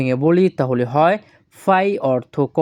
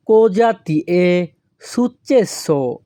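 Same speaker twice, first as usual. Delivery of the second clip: slow model phrase; much slower than usual. Shown as a demonstration. Teacher models the Italian phrase.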